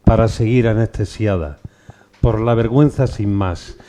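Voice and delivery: measured poem reading with pauses after each line; poem recital. Acted. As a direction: recite it line by line, letting each line fall at the end. Reads a poem aloud.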